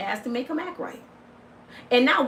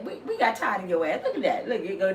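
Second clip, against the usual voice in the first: ordinary talk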